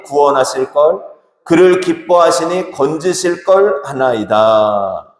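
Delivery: slow, measured congregational Bible reading; slow recited psalm; scripture reading. Acted. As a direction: read the verse out evenly, drawing out phrase ends. Reads Psalm verses aloud in unison style.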